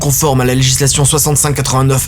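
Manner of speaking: lightly voiced formal accusation; arbitress stating charges. Arbitress accusing the mother, lightly voiced formal tone. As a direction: read out the charges like a judge. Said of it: "continue l'arbitresse".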